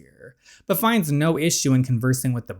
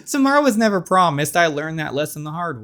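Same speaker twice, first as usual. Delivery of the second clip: Cerise voice; 4 semitones higher than usual. Acted. Cerise telling Sawyer, a bit higher put-on voice. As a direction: say it lightly, knowingly. Cerise speaks after laugh.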